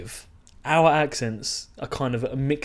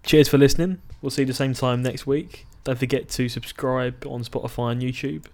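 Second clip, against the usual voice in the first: second-go sign-off. Real, not acted. Having one more go at the podcast outro, fluent sign-off. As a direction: run through the sign-off without faltering. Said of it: "I'll have one more go".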